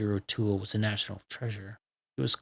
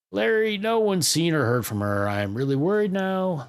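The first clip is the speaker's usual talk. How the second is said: worried; 6 semitones higher, 5 dB louder than usual. Acted. Friend frantic, Nat missing.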